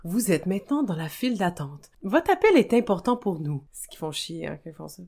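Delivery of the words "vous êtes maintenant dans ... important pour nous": phone hold-message voice; customer service voice. Acted. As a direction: read it like an automated phone line. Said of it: "une madame d'appel, euh, téléphonique?".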